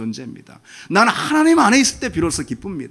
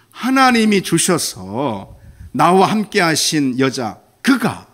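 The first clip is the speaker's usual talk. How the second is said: 여자 그가 slow and pressed; emphasized; 4 dB louder, slower than usual. Acted. Adam blaming the woman, stressing 여자 그가. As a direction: lean hard on 여자 그가, drawn out. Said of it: "강조하죠".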